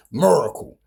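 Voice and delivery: "Miracle" with an r-colored MUR start; Baltimore-style "Miracle", first vowel swallowed into the r; Baltimore pronunciation. Shown as a demonstration. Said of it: "That's how we say it in Baltimore".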